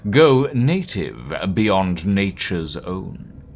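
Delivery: forceful, solemn reading of written doctrine; dramatic declamation. Acted. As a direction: preach it in weighty, separated phrases. Reads character's notes aloud.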